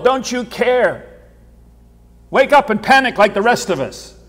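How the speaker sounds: frantic, pleading cry over the storm; panicked disciples. Retold or imitated. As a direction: plead like a terrified sailor.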